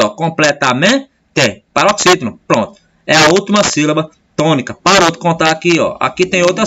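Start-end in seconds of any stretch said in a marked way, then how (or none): 0.1-1.1 "Completamente" slowed, rising on "men" before a detached "te"; stressed syllable. Shown as a demonstration. Teacher showing the tonic syllable, stressing "men" in "Completamente". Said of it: "Não é mais forte".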